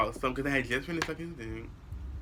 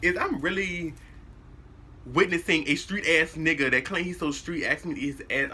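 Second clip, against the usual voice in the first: higher, disbelieving inner voice; imitating stunned disbelief, pitched up; incredulous; 5 semitones higher than usual. Reacting to his request, higher and disbelieving. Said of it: "I'm just looking like".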